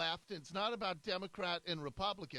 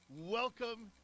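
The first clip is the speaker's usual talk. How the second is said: a slower, falling welcome; drawn-out welcome; 4 semitones higher than usual. Real, not acted. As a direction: stretch it out warmly. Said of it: "if you can hear a smile in my voice".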